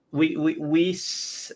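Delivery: robotic, warbling call audio; broken-up glitchy stream sound; robotic glitching audio. Real, not acted.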